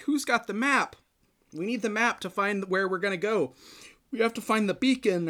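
mock-urgent demand; retold urgency. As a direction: call out as if the ship is under fire. Retells crew in a dogfight.

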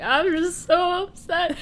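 high, slow whine of distress; mock upset wail. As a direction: imitate a man wallowing, stretched out high. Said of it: "He's sitting there freaking out".

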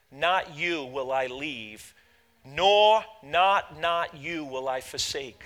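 slow with weight on "not"; "not" set apart and drawn out; stress on not. Shown as a demonstration. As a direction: lean on each "not".

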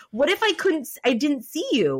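retold tearful anger. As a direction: challenge the officer, mildly mad. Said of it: "getting mad at the cop".

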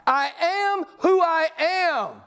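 solemn divine voice. Acted. Quoting God's name slowly.

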